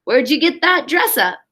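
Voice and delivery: put-on lively read-aloud for a class of kids; animated picture-book narration; storybook reading. A narrator's reading. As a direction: read it like story time on the rug. Teacher reads picture book aloud.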